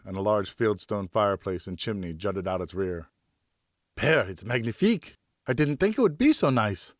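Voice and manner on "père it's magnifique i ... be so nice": put-on higher young son, bursting with thanks; boy can barely contain his joy; excited boy. Son thanks his father for agreeing, in a high eager voice.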